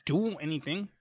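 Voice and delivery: lightly put-on Boston accent, protesting; mock Boston accent. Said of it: "He doesn't sound like he's from Boston at all".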